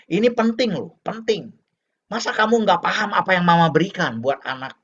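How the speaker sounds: lightly acted parental nagging; lecturing mother. Mama asking why her child doesn't understand, mildly insistent. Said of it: "Boleh Mama".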